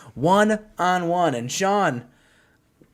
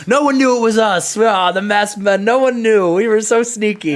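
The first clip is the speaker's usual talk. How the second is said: smug mock gloat, a bit louder; 4 dB louder than usual. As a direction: brag like sneaky villains. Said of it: "they're gloating".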